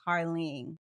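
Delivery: "Carlene" as said in Southern dialect; Southern dialect pronunciation. Shown as a demonstration. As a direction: say "Carlene" with a long ee and final n. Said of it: "that Southern dialect, you're gonna say".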